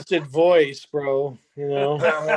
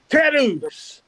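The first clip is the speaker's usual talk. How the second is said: put-on Australian accent; 7 semitones higher than usual. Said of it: "This is the Australian accent version".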